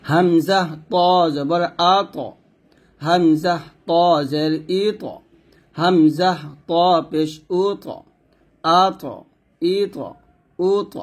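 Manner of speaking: আক ইক উক with a thick, full bounce on the q; slow drilled syllables, each ending in a heavy echoing knock; heavy qalqalah. Shown as a demonstration. Tajweed teacher drilling students, slow heavy bounced syllables. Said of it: "তটা একইভাবে হবে".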